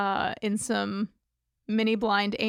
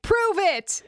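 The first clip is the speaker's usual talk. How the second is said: demanding shout; 8 semitones higher than usual. Retold or imitated. FBI dudes demanding proof.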